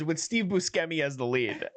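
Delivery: Buscemi said "bus-KEM-ee" with a hard k; butchered name. Retold or imitated. Pitching the lead actor, Buscemi mispronounced with a hard SK. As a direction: say Buscemi wrongly as "boo-SKEM-ee". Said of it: "butchering his name".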